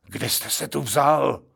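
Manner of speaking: a hint of sharp questioning. A gentleman questions the intruder sharply. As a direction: cut him short, stern. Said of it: "řekl jeden z nich ostře".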